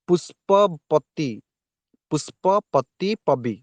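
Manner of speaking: very slow, each part of ପୁଷ୍ପପତି drawn out; teacher sounding out the words slowly; slow pronunciation demo. Shown as a demonstration. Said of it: "ତମେ ଉଚ୍ଚାରଣ ନିଜେ କର". (ଧୀରେ ଧୀରେ ଉଚ୍ଚାରଣ କରି ଦେଖାଇବା)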